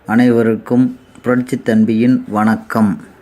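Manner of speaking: thunderous political oratory. Acted. Mock politician addressing rally crowd.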